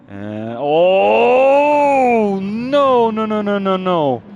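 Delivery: rising panicked "no, no, no"; real alarm as the car slides; alarmed cry. Real, not acted. Commentator sees crash coming.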